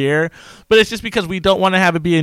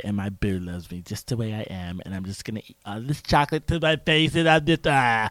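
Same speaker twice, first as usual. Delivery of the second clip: put-on whiny valley girl voice; 4 semitones lower, 4 dB quieter than usual. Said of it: "It's that voice?".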